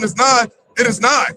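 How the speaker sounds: slow, deliberate stress on both "nigh"s; doubled emphasis. Shown as a demonstration. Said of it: "put the double emphasis on".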